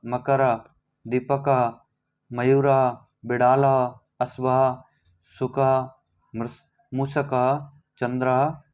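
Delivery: each word ending with a clear visarga, छात्रः said as chaatrah; careful recitation. Shown as a demonstration. Teacher to students, modelling the pronunciation of each word. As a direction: recite the list crisply, sounding every final visarga. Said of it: "तो इसका उच्चारण हम करते हैं".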